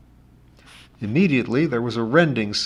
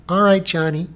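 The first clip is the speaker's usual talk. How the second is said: creature voice; 8 semitones higher, 5 dB louder than usual. A narrator's reading. Lummox replies.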